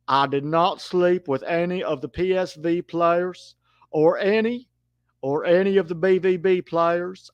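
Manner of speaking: lightly voiced Southern politician swearing innocence; Bill Clinton. Commentator doing Bill Clinton on request, lightly voiced denial. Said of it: "can you do commentary in a Bill Clinton voice".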